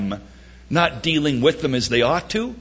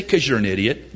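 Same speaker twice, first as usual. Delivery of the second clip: deadpan put-down; 5 semitones lower, faster than usual. Shown as a demonstration. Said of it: "Just say".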